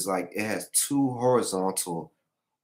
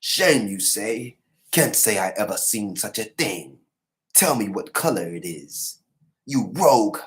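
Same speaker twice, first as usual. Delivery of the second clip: hard-voiced traitor; 3 dB louder than usual. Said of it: "his voice is hard".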